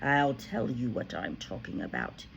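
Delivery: shouting. A narrator's reading. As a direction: rage at him about the cake. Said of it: "the Trunchbull shouted".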